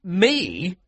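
high, loud disbelief; incredulous, pitched right up; startled cry. A narrator's reading. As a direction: cry out in astonishment. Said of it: "I cried".

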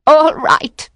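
high, nervous surrender; high-pitched reluctant consent; frightened giving in. A narrator's reading. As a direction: give in with a high, anxious voice. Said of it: "She trembled".

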